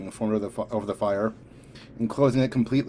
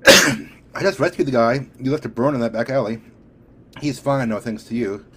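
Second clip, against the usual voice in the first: angry, louder confrontation at first; raised voice; 8 dB louder than usual. A narrator's reading. Hope confronting Drake about the burned man, raised voice. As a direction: raise your voice in accusation. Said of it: "She raised her voice".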